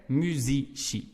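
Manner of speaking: musici with C I as "shee"; włoska wymowa. Shown as a demonstration. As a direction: say musici slowly, ending in "shee". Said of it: "we would pronounce like they do in".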